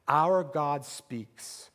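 1 slow emphatic. Acted. Sermon key line repeated.

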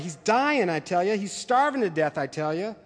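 a touch of a boy's desperate cry, lightly voiced; mildly pleading, a hint of panic. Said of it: "Suddenly the boy cried".

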